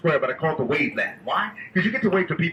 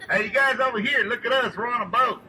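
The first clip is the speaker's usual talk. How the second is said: calling from far away; 7 semitones higher than usual. Real, not acted. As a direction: call out to strangers on the bank. Calling to people on shore.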